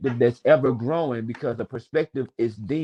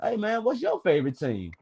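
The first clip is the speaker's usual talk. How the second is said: sarcastic cheer; 4 semitones higher than usual. Retold or imitated. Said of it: "I'm like".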